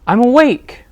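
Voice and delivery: loud, high bellow; roaring bear. Acted. Sleepless Bear roaring at his friends, loud. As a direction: roar it out, fed up. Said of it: "roars Bear".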